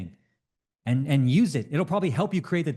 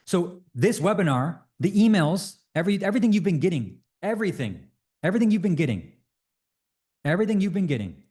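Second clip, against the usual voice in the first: higher, building excitement; excited; 5 semitones higher than usual. Real, not acted. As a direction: pile up "everything" with rising excitement. Excited reveal, repeated everything.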